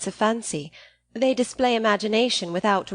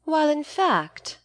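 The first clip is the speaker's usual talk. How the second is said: slow, raised mock cry; cried; 6 semitones higher, slower than usual. A narrator's reading. Sister cries out teasing her brother, mildly raised. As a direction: sister cutting in, a touch raised. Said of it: "cried his sister".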